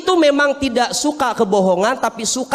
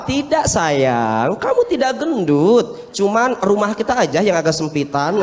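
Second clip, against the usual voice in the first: soothing husband. Retold or imitated. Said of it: "Terus Ustaz jawabnya apa?".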